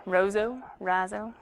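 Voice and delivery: "Razzo" with an open RAH, New York style; New York-ish accent. Shown as a demonstration. Teacher checking a student's surname, "Razzo" in New York-ish RAH-zoh. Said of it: "New York something accent".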